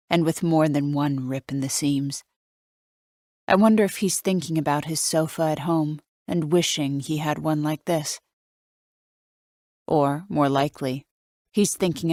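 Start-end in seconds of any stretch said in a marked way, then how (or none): none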